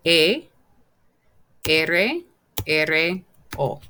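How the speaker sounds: each Spanish letter said separately, with pauses; careful dictation for learners to copy; slow spelling. Shown as a demonstration. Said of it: "I'll do it slowly".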